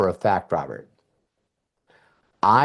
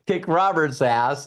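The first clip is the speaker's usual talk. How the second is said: cocky challenge; 5 semitones higher than usual. Retold or imitated. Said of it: "everybody's like".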